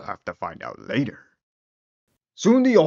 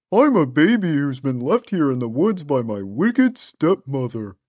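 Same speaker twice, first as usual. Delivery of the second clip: put-on girl voice; 4 semitones higher, 3 dB louder than usual.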